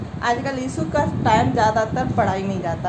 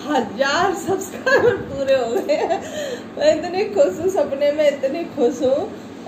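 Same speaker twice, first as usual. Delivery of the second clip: हंसते हुए खुशी; 4 semitones higher than usual. Real, not acted. सपने की खुशी हंसते हुए बताना.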